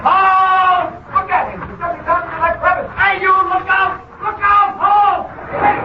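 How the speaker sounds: shouting halt. Acted. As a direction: bark orders at a runaway. Calling a fleeing man.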